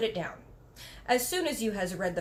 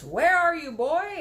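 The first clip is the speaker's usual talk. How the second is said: put-on louder, high shout for the boy; 6 semitones higher, 7 dB louder, slower than usual. A narrator's reading. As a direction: call out into the room. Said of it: "And he shouts".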